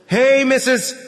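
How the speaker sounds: shouting upwards. Acted. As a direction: call up to someone above you. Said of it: "the broker shouted upwards".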